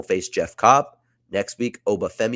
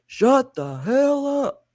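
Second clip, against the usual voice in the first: very high, very slow bellowed cut-off; loud interruption; 4 dB louder, much slower than usual. Acted. Mike Awesome cutting off Oba Femi with a loud slow yell. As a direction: stretch each word out as a big yelled shut-up. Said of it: "interrupted by a loud".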